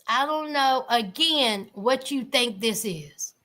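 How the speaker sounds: dismissive put-down. Retold or imitated. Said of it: "And Julia says".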